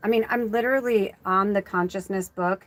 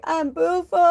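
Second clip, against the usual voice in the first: put-on high little child voice; little girl; 8 semitones higher than usual. Little girl answering her dad in a high child voice. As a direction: chirp it like a small child. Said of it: "She's like".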